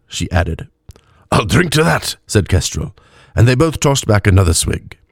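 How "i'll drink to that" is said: higher tipsy toast; drunk elf. A narrator's reading. Drunk cleric toasting his companion, higher tipsy voice.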